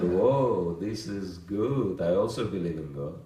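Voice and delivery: loud, delighted burst with a laugh, slowing on good; excited drunk man. Retold or imitated. Drunk man at the airport delighted to share belief, loud and laughing. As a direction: blurt it out, thrilled and tipsy.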